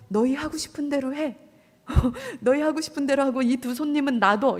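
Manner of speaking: amused, incredulous retelling with a laugh in it; laughing while quoting. Retold or imitated. Preacher mocking Lot's offer to the crowd, laughing.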